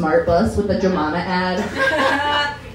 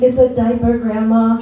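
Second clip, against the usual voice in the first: louder, firm caregiver; caregiver correcting; 3 semitones higher, 5 dB louder than usual. Pretend. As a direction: set grandma straight. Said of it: "They're like".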